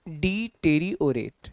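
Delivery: "डी टेरी और एट" slow, pieces starting to join; syllables drawing together. Shown as a demonstration. Teacher guiding students' reading, "डी टेरी और एट" slowly linked. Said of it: "अब इसको पढ़ के देखिए".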